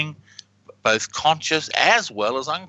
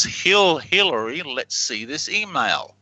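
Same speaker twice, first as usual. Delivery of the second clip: slow and clear; slower than usual. Shown as a demonstration. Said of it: "and he says".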